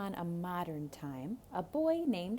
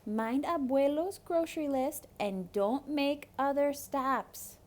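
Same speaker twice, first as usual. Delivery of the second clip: higher, caring mother voice; mama's warning; 6 semitones higher than usual. Acted. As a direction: warn him like a mom. Mama warns Rico.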